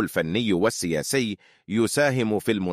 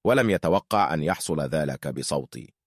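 synthetic AI voice, mock laugh then sad; text-to-speech robot lamenting. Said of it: "أنا روبوت".

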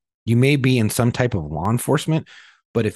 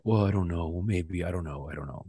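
mock dad hedging, fading to almost nothing; imitating a noncommittal dad, getting much softer; evasive mumble; 4 semitones lower, 9 dB quieter than usual. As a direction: trail off softer and softer, dodging. Dad's evasive runaround, quoted.

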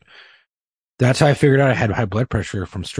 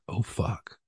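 hushed, sinking oh fuck under the breath; quiet dread; 10 dB quieter than usual. Retold or imitated. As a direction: let it slip out softly, dread dawning. Realizing bad heart reading.

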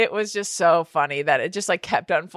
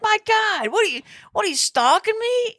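mock indignant husband; 13 semitones higher than usual. Imitating husband's indignant reply.

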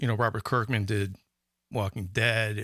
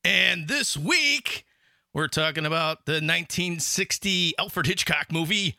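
radio announcer voice; 6 semitones higher than usual. Real, not acted. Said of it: "like, a radio announcer voice today".

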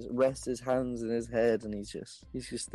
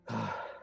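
soft, weary sigh; big sigh; 8 dB quieter than usual. Acted. General seen through his trailer giving out a big sigh. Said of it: "give out a big sigh".

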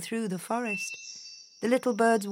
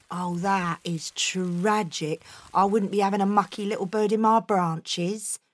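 snooty birch. Acted. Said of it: "said the birch".

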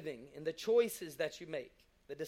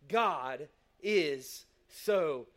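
saying it to himself; 4 semitones lower, much slower than usual. Retold or imitated. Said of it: "he's saying this to himself".

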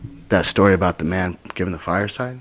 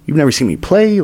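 higher-pitched, quick disbelief; retold bewildered objection; incredulous protest; 5 semitones higher, 3 dB louder than usual. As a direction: push back in baffled amazement. Disbelief at the coach's offer.

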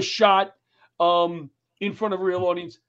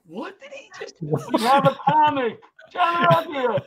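high, dragged-out emcee call; lightly voiced emcee; announcer; 6 semitones higher, 3 dB louder than usual. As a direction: call the comic up awkwardly. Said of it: "And I went".

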